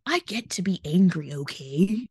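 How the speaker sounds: parroting Allie's catchphrase with a sneer; mocking Allie. Podcaster mocking Allie's catchphrase to her cohost, in a mocking voice. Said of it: "as Allie loves to say".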